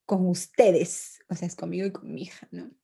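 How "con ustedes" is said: slow sulky answer. Retold or imitated. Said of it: "Estoy enojado".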